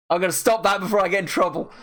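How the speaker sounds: quick, laughing aside; amused. Real, not acted. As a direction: rattle it off with a laugh. Amused after doing the accent.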